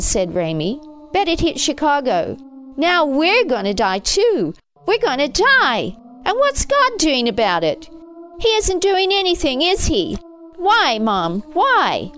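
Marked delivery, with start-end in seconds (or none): 1.1-12.1 put-on high, agitated boy building to a wail; increasingly hysterical. A narrator's reading. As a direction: let panic build into pleading whys. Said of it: "Ramey's voice was becoming more hysterical".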